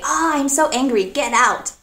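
joking mock anger. Friend jokes at a friend, playful mock anger. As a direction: pretend to be angry as a joke. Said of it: "you could joke and say".

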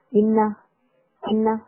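"in a" run together as one word; linked IN A. Shown as a demonstration. Teacher demonstrates linking, "in a" joined. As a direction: carry the n of in straight into a. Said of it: "in a做一个连读".

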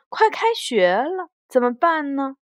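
understated worried question; worried parents. Acted. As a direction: ask it as mildly anxious parents in a storybook. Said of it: "担心地问".

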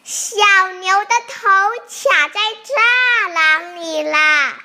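high, loud storybook exclamation; alarmed discovery. A narrator's reading. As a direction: exclaim it in dramatic surprise, drawing out the end. Narrator reveals the calf is stuck.

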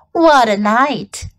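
slow husky rat voice. Acted. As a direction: drag it out, husky and tired. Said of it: "he said in a husky voice".

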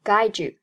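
"guide you" blended as guy-dyou; "guide you" linked into one smooth word. Shown as a demonstration. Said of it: "Guide和you连读".

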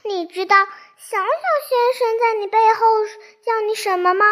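put-on a mischievous girl stirring up trouble; sly Miss Trouble. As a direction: needle him with a sly, quick question. Miss Trouble teasing Mr Clever.

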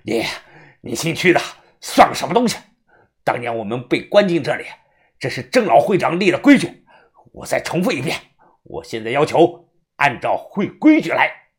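forceful, husky defiance; hoarse. Acted. Follower defying the ward manager over the rules, hoarse. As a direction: press the demand in a hoarse voice. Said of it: "沙哑的嗓子说道".

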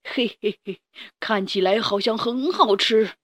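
sly hungry dinosaur chuckle; a predator licking its lips; villain dinosaur. Acted. Villain dinosaur eyes prey.

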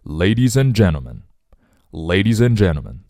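"Ladies and gentlemen" with the d of "and" dropped; silent d linking. Shown as a demonstration. Teacher showing learners the opening, linked with silent d. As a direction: run "and" into "gentlemen" as "an". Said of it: "and的的不要读出来".

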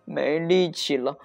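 out of breath. A narrator's reading. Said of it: "鲍比气喘吁吁地说".

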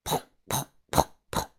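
four separate popped bangs; knocking imitation. A narrator's reading. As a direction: imitate pounding on a door. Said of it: "邮递员在敲门". (模仿敲门的砰砰声)

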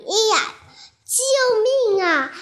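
high, slow frightened call for help; a scared little voice calling help; cry for help. Acted. Character in the river calling for help, frightened.

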